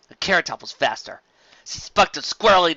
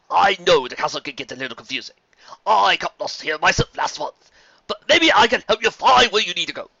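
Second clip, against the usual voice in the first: lightly voiced friendly unicorn, a bit higher; friendly stallion; 4 semitones higher, 6 dB louder than usual. Tour guide greets a lost pony, lightly voiced and friendly. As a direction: offer help like a polite tour guide.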